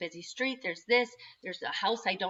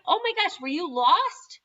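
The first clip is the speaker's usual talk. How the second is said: put-on a mother finding her lost boy, relieved and much louder; relieved surprise; 9 semitones higher, 7 dB louder than usual. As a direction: rush to him, half laughing with relief. Mom relieved on finding son.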